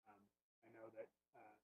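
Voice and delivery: faint and far from the microphone; very quiet. Real, not acted. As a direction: talk too softly, drifting away. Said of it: "Andrew, you're really quiet".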